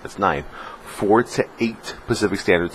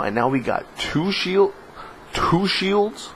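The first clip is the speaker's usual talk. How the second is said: giddy disbelief; 9 semitones higher than usual. Real, not acted. Gamer telling viewers about two shield drops at last, giddy disbelief. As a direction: crow it in a high, incredulous voice.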